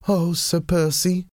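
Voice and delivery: high-pitched heartfelt exclamation; exclaiming. A narrator's reading. Wife turning to her husband to confess, high exclamation. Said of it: "Lady Marguerite exclaimed".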